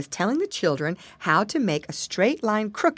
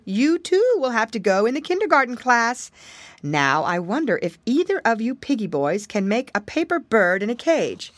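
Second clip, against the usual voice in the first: ladybug teacher voice; 5 semitones higher, 3 dB louder than usual. Acted. Teacher speaks.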